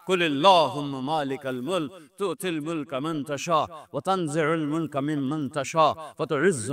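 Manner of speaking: slow, chanted Arabic verses; Quran recitation. Acted. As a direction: intone the verses with reverence. (ٹھہر ٹھہر کر قرآنی آیات کی تلاوت)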